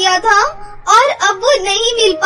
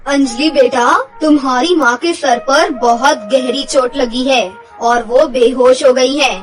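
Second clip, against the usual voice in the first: lower, grave doctor's voice; serious doctor; 4 semitones lower than usual. Acted. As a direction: break bad news gently but firmly, lower. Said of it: "doctor उससे कहते हैं".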